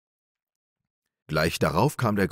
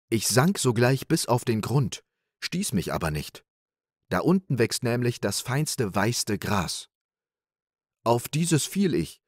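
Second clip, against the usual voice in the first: little Klaus boasting; 3 semitones higher than usual. Acted. Little Klaus fooling big Klaus, boastfully. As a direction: spin the tale with relish.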